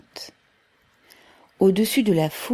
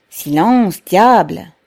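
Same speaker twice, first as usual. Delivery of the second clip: louder irritated yell; angry shout; 10 dB louder, slower than usual. A narrator's reading. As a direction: shut the crowd up, fed up. Crowd demands quiet.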